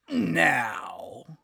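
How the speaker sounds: hushed and drawn out; dramatic whisper. Acted. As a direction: hold it for effect. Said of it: "pausing for dramatic effect".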